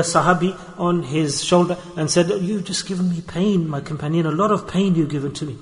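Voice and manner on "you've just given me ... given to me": soft, gentle and kind; said nicely and softly. Retold or imitated. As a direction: speak it gently, like a tender rebuke. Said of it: "nicely and softly".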